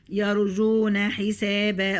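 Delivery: يرجون with the waw stretched two beats; drawn-out madd. Shown as a demonstration. Teacher demonstrates the natural madd for students, stretched vowel. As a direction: hold the long u in يرجون. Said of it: "يرجو مد بالواو".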